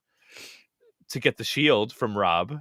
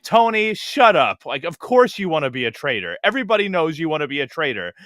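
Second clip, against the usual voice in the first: mock scolding Carolyn. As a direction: snap at Tony like an exasperated friend. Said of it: "was like".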